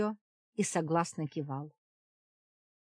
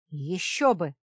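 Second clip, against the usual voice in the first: louder angry outburst; exploding; 7 dB louder than usual. A narrator's reading. Yogan bursts out at the witch, angry. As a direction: burst out at her. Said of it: "взорвался Йоган".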